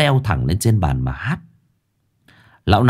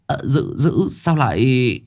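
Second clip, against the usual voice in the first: higher, stammering sidekick; flustered; 4 semitones higher, slower than usual. A narrator's reading. Sáu Bưởi ordered to hold Hoàng Anh down, flustered. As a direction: stumble over the words in confusion. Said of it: "Sáu Bưởi luống cuống".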